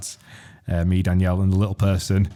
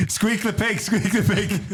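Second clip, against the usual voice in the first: squeak the pig; 10 semitones higher, slower than usual. Pretend. Mocking squeal chant at mate.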